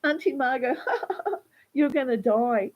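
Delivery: a laugh in the voice while taunting; mock laughing taunt. Man mocking the unconscious aunt at her bedside, laughing cruelly. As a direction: imitate him laughing at the dying aunt. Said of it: "he started laughing".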